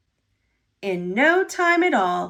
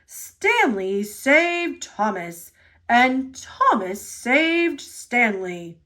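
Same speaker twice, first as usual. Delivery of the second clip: slow, grand announcement; grand proclamation; slower than usual. Acted. The railway boss proclaims grandly to everyone. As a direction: proclaim it like a ceremony. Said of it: "grandly proclaimed".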